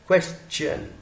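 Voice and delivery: "क्वेश्चन" joined up with a clear च; CH sound. Shown as a demonstration. Teacher repeats after explaining च, CH sound. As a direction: say "क्वेश्चन" as "kwes-chan", little gap. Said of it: "च है ये".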